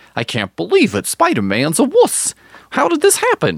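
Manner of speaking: pitch pushed way up and swinging. Listing Spider-Man's heroes and villains, the speaker voices a reaction: Daredevil impression. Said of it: "That's my Daredevil impression".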